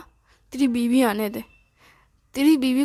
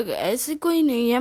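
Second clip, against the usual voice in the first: nervous laugh. Acted. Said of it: "तुम अटक रहे हो".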